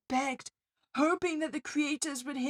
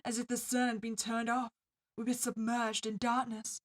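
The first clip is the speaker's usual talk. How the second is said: story narration. A narrator's reading.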